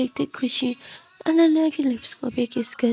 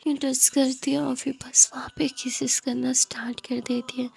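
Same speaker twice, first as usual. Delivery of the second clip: hushed, intimate story whisper; whispered narration; 4 dB quieter than usual. A narrator's reading. Narrator whispers the kiss scene, hushed and intimate. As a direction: breathe the romance softly to the listener.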